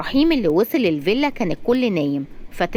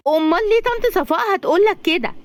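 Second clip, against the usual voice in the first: suspicious question; 12 semitones higher, 3 dB louder than usual. Acted.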